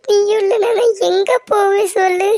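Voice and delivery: tearful, rising desperate plea; a husband begging his wife through tears; crying plea. Acted. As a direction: beg her not to leave him.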